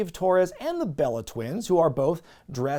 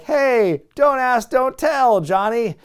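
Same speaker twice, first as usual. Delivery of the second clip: drill sergeant bark; 8 semitones higher, 6 dB louder, slower than usual. Retold or imitated. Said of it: "Slaughter's like".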